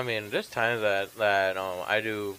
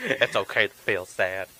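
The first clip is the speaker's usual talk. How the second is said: Mister Rogers; 2 semitones lower than usual. Retold or imitated. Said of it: "I did, like, a Mister Rogers".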